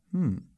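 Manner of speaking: short relishing "hmm"; savouring little murmur; contented hum. A narrator's reading. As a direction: hum with pleasure at the taste. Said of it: "bromde Dick".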